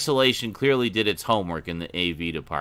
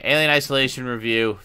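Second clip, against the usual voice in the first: announcer; 3 semitones higher, faster than usual. Acted. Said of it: "your hipster voice".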